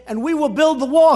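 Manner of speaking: mock quote. Mocking a rival's claim.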